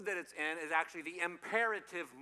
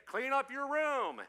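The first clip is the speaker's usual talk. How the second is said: high, loud parental order; a parent giving a firm, loud command; 8 semitones higher, 5 dB louder, slower than usual. Acted. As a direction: lay down the law, slowly. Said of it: "When they say".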